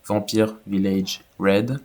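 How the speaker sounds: slow French-accented English; self-mocked English accent. Shown as a demonstration. Gamer naming the village raid for viewers, jokey English accent. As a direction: read it slowly in would-be English accent. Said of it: "Avec mon super accent anglais".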